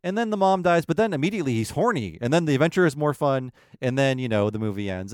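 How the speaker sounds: sneering at the Disney plot as simple fun; mocking summary. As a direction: make the movie sound shallow. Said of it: "they're really about, like".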